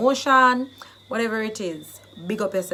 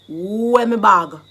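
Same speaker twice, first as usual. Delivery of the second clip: loud, drawn-out "Where my bag?"; slow, swelling outburst of attitude; alarmed, annoyed demand; 9 dB louder, slower than usual. Shown as a demonstration. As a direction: stretch it out loud on finding it gone. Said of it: "you come back and it's not there, then you're going to be like".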